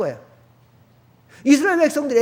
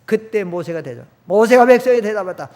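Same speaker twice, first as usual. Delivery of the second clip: ordinary talk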